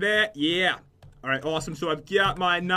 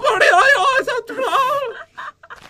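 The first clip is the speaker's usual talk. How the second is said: much higher, slow, stretched-out imitated voice; Bernie Chap voice; 5 dB louder, much slower than usual. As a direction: pitch way up and drag the words out, playing him for laughs. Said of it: "you want me to do my impression?".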